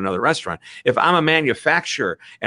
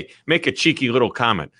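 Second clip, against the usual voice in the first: Midwest accent. Shown as a demonstration. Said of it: "my Midwest accent".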